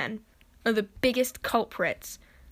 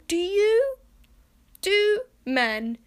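high squeaky disbelief; incredulous; 11 semitones higher, 6 dB louder, much slower than usual. Real, not acted. Vlogger asking men in disbelief, high squeal. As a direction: shriek it in total disbelief.

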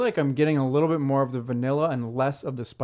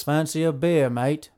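lightly put-on Australian accent; a hint of an Aussie offering a beer; mock Australian accent; slower than usual. Teasing cohost about English beer, light mock Australian accent. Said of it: "always goes to Australian".

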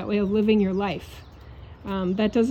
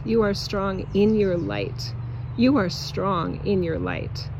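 loving affirmations. Acted. Repeated loving affirmations to viewers.

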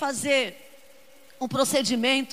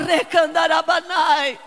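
speaking in tongues; 6 dB louder, slower than usual. Acted. Tongues between preached lines.

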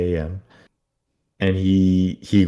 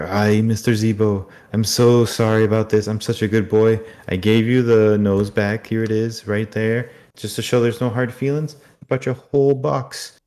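put-on higher, eager pleading boy voice; nervous apology; 5 semitones higher, 3 dB louder than usual. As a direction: grovel sweetly to the animatronic, too eager. Josh sheepishly apologizing to Zeebo.

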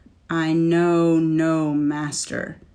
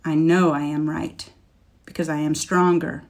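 defiant scornful laugh. Acted. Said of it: "the dragon laughed scornfully".

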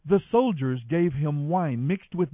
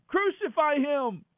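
high, drawn-out shout at normal volume; crowd shout; 9 semitones higher, slower than usual. A narrator's reading. Crowd answers Pilate's question, a high drawn-out shout. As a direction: call it out high and slow as a crowd. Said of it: "And they all shouted".

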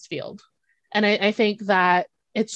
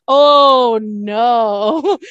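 laughing reassurance; 6 dB louder than usual. Retold or imitated.

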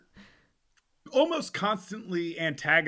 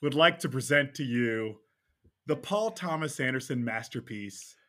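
courtroom lawyer. Acted. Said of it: "Ladies and gentlemen of the jury".

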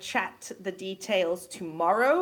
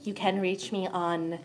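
sultry narrator; 5 dB quieter than usual. Shown as a demonstration. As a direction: purr the words out slowly and softly. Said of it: "trying to show off my sultry".

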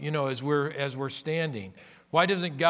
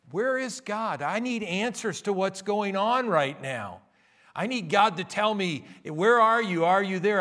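pleading cry; 5 semitones higher, 3 dB louder than usual. Retold or imitated. Voicing a believer crying out.

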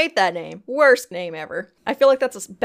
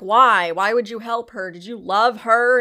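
mock upset demand; 3 semitones higher, 6 dB louder than usual. Retold sister confronting brother.

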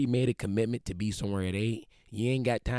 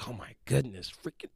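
mock exasperated complaining, slightly raised pitch; Martin Luther King throwing a fit; 3 semitones higher than usual. Imagined civil rights leader giving up on marches, mock exasperated fit. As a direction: grumble your way to giving up, half-hearted tantrum. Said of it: "Martin Luther King threw a fit".

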